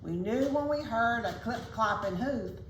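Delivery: lilting rhymed storybook reading; measured picture-book narration; story narration. A narrator's reading. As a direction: read a rhyme aloud to children. Reads a rhyming story aloud.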